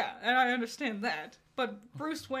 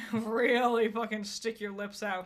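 lightly pushed, louder imitation with lips stuck out; mock gravelly Batman voice; 6 dB louder than usual. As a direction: lampoon an over-gravelled superhero voice, half laughing. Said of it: "put too much gravel on it".

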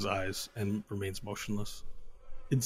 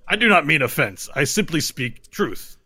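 booming arrogant alien overlord; 4 semitones higher, 3 dB louder than usual. Acted. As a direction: lecture the fleshling calmly. Diptak defends insult.

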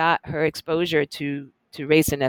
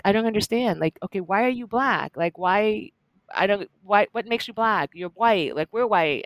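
puzzled mom; 4 semitones higher than usual. Retold or imitated. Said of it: "my mom was like".

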